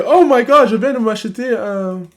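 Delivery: a touch of mock American gush; lightly hammed-up impression of a shopper; mocking her. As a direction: parrot her with a mild excited squeal. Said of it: "Elle vient de dire que".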